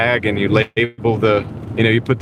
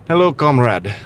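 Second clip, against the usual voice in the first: put-on Russian accent; 4 semitones higher than usual. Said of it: "I gotta get in the mood to do the Russian thing".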